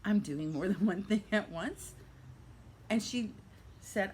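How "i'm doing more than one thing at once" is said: polite apology. Retold or imitated. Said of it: "very nicely, she had to say".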